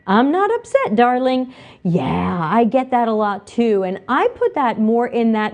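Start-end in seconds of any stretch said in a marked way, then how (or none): 0.1-1.5 mock retort. Retort to tone policing.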